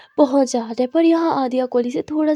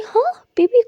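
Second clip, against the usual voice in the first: sarcastic tease; 10 semitones higher, 5 dB louder than usual. Acted. Aadiya teasing Muskan.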